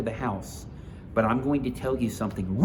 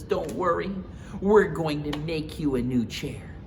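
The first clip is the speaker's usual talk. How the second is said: Mama Bear comforting; 6 semitones higher, 4 dB louder than usual. Acted. Mama Bear comforting crying Baby Bear. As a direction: reassure the little cub gently.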